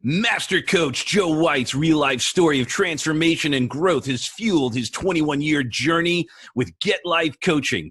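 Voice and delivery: smooth radio announcer read. Pretend. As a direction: intro like a radio host. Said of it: "I'm gonna do my best radio voice".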